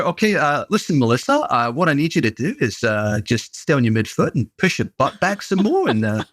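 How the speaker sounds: lightly imitated Australian coach. Husband imitating his wife's coach giving squat cues, light Australian accent. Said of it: "That's a pretty good Australian accent".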